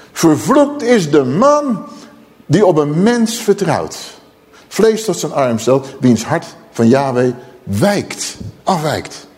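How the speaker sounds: slow, weighty pronouncement of a curse; solemn scripture declamation. Acted. Preacher repeating the prophet's curse to listeners, slow declamation. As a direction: stretch each phrase, pausing between them.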